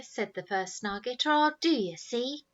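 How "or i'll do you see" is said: high, loud menacing threat. Acted. Eldest brother threatening the youngest, loud. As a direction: threaten him loudly.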